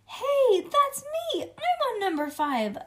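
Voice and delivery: put-on high, loud cry of a boy who has won; excited boy's shout. A narrator's reading. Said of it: "shouted a boy with red hair".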